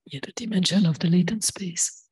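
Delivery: real hoarse voice; lost voice. Real, not acted. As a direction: push the words out through a lost voice. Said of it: "I've lost my voice".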